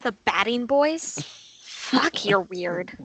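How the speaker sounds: disgusted. Acted. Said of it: "looks at him disgusted and says".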